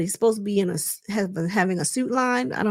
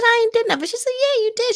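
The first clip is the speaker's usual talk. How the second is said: mock denial; 14 semitones higher, faster than usual. Quoted quarrel, higher voice.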